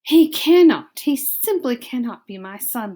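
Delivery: a hint of a loud cry of despair; despairing father. Father mouse hearing the news, mild despairing outburst. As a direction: burst out then sink. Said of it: "Lester said".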